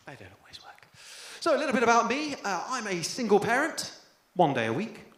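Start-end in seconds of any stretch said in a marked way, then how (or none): 0.1-0.9 much softer, lower, dejected repeat; quiet. Shown as a demonstration. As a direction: let it die away under your breath. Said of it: "repeated much softer".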